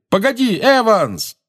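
high, urgent shout; calling after her. A narrator's reading. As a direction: call out to make them wait. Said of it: "крикнул Джеймс ей вслед".

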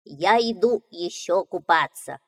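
cheerful little duckling. Acted. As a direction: voice the young duckling brightly. Duckling speaks.

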